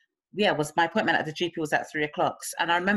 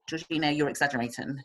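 dismissive sister; 4 semitones lower, 4 dB quieter than usual. Retold or imitated. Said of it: "she was like".

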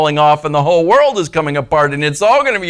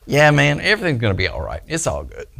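laid-back optimist; 3 dB quieter than usual. Retold or imitated. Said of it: "are you one of those people".

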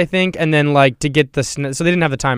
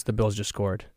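much softer, leaning-in whisper-like tip; hushed aside; 5 semitones lower, 12 dB quieter than usual. Retold or imitated. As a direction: murmur it secretly during the scene. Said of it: "she leans over to me and goes".

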